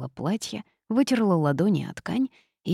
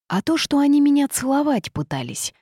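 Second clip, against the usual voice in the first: high, loud outraged protest; indignant toad; 10 semitones higher, 5 dB louder than usual. A narrator's reading. Toad objects to mages trying to kiss her, indignant. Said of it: "возмутилась жаба".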